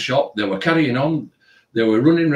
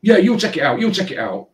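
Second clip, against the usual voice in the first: mock demand; 8 semitones higher than usual. Girl voiced demanding removal.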